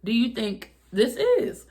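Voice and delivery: imitating a shocked yell at the friend. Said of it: "And I'm like".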